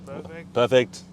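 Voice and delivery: light put-on German accent. Driver approving in passing, light German accent. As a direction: say it with a touch of mock German. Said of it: "the German accent just kinda came out".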